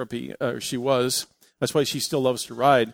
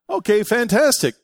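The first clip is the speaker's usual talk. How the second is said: high, loud gleeful okay; mock delight; 9 semitones higher, 9 dB louder than usual. Rick gleefully accepting the one-dollar price. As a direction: seal the deal with glee.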